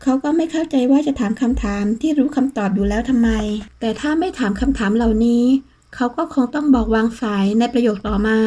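plain reading voice

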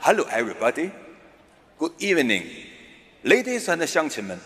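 mock-British public address, measured with pauses; British speechmaker. Comic playing a suited Briton giving a speech, mock-British delivery. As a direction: greet the audience as a British orator. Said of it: "英国人穿着西服".

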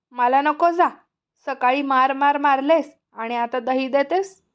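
put-on sulky child snapping back at his mother; mildly angry boy refusing the curd; angry retort. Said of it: "मी रागाने म्हणालो".

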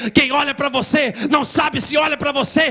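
a mock angry demon, rising and accusing; retold demon rant. Demon taunting Adriano that he has no moral authority, mock angry rant. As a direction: hurl it back at him like the demon. Demon rebuking preacher in dream.

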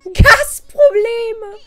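loud, high, drawn-out exclamation; exasperated outcry. Real, not acted. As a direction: cry it out high, stretching the word. Exclaims at trouble in the game.

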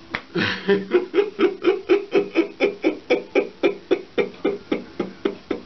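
high laugh trailing into wheezes; helpless laughing. Real, not acted. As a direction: laugh until the breath runs out. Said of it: "I don't wanna laugh".

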